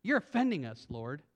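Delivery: mock-wounded whine, trailing down softly; lightly whiny protest, sinking on the last word. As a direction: whine it like an offended lawyer. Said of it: "I read it in a whiny voice".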